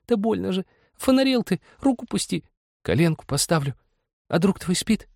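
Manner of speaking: very high, hushed protest; woman's whisper. A narrator's reading. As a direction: object urgently in a high, secretive voice. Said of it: "шептала она".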